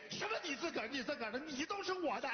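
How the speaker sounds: high-pitched quarrelling; indignant retort. Acted. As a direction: throw the words back at the son, outraged. Father quarrels over house.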